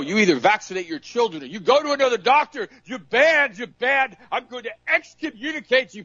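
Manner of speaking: mock arrogant doctor. Preacher mocks a doctor banning the patient, high haughty voice. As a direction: lord it over the peasant patient.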